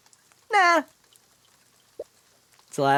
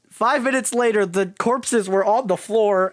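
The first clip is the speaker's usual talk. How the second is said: dramatic narration; 3 semitones higher, 3 dB louder than usual. Shown as a demonstration.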